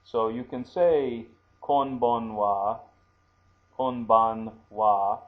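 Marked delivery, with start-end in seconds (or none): 1.6-5.2 konbanwa slowly spelled out with an n sound; konbanwa demo. Shown as a demonstration. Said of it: "can sometimes be used, uh, to write M".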